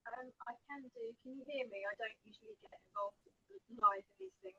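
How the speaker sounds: faint, distant voice far from the mic; barely audible. Real, not acted. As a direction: speak as if the mic is barely picking you up. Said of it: "It's very low".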